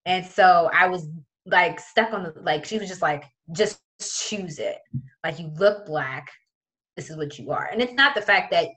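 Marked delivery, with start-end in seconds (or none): 3.5-7.6 retold patronizing tone; condescending teacher. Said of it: "It was just very condescending".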